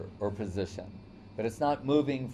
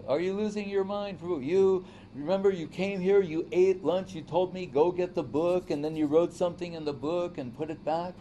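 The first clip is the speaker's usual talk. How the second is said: incredulous wife; 6 semitones higher than usual. Retold or imitated. Wife tells husband he's losing his mind, high and insistent. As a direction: pile up the reminders, half-pleading. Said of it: "She's saying".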